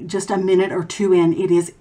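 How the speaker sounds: face stiff under drying mask; talking with clay mask on. Real, not acted. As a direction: lips moving inside clay mask. Seen 1: dark clay mask covers face around lips throughout; none in refs.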